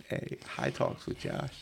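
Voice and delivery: slow whispered show intro. Pretend. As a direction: breathe it like a secret tagline. Mock show intro line.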